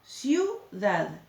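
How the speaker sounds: "Ciudad" with iu joined in one syllable; diptongo marcado. Shown as a demonstration. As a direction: say "Ciudad" carefully, gliding i into u. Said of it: "Con una sola vez que largue aire". ("Ciudad" con el diptongo iu bien unido)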